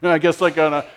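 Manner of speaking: sulky sigh of duty; grumpy guy. Retold or imitated. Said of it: "like a grumpy guy".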